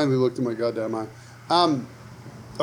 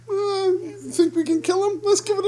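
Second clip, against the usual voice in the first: a sneaky little villain scheming inside the body; cartoon villain in his gut, plotting. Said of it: "something in my body goes".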